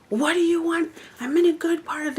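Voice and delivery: high, sharp mock snapping at a friend; retold snap. Retelling how she snapped at a friend who kept interrupting her reading, high and irritated. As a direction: bite her head off, high and annoyed. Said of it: "and I snapped".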